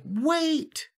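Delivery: squeaky high-pitched call; high girly voice. Retold or imitated. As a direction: squeak it out like a little girl. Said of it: "she's like, doesn't sound like a big scary lady".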